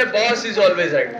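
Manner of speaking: slow, drawn-out movie line; film dialogue. Retold or imitated. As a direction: savour each word of the line. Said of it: "त्या picture मध्ये सांगितलंय". (फिल्मी dialogue, सावकाश)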